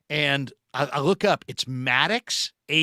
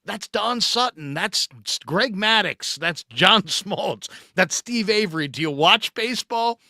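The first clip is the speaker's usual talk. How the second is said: higher, can't-believe-you listing; exasperated disbelief; 6 semitones higher, 3 dB louder than usual. Retold or imitated. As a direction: rattle off the names in disbelief. Listing famous pitchers in disbelief.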